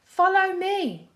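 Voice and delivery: high, loud, slow call; yell. A narrator's reading. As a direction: call him along. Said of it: "he yelled".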